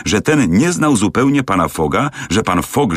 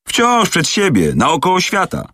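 higher, proud announcement; eager servant boasting; 12 semitones higher than usual. Acted. Servant tells Fix where his master rushes, eager pride. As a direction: tell it proudly, as if obvious.

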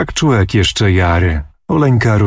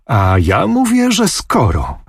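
higher, stubborn insistence on skoro; insistent foot stamp; 6 semitones higher than usual. A narrator's reading. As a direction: put your foot down on skoro. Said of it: "tupiąc nóżką".

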